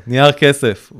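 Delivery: a loud call up to the brother; shouting up. Retold or imitated. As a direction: holler it up to the floor above. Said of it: "ואז הייתי צועק לו".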